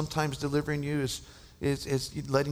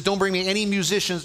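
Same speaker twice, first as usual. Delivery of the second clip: sleepless king's demand; 5 semitones higher, 7 dB louder than usual. Retold or imitated. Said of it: "He says".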